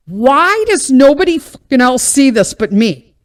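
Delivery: exasperated outburst. Retold or imitated. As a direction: throw it out like nobody else gets it. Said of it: "And here's me".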